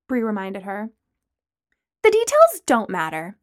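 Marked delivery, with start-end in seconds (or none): 2.0-3.4 breezy and shameless; unabashed. Acted. Lana shrugging off Bree's reminder, unabashed. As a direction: brush it off lightly. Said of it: "Lana continued unabashedly".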